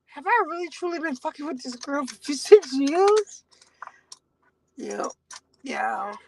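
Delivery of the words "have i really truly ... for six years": welling up. Real, not acted. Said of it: "welling up".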